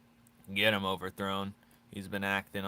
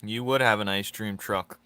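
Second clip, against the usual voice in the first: emphatic tease; 7 dB louder than usual. Acted. Teasing viewer, said twice.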